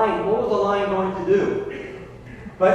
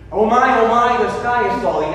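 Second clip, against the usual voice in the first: panicky Chicken Little; 3 semitones higher, 5 dB louder than usual. Acted. Panicked Chicken Little in retold fable.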